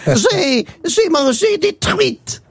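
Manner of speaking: lightly voiced child. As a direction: say it like a child proud of his answer. Child and teacher dialogue.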